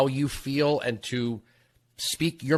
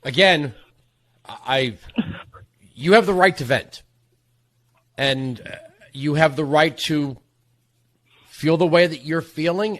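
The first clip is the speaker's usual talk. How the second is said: loud on the line; 5 dB louder than usual. Real, not acted. Host calms a grieving caller.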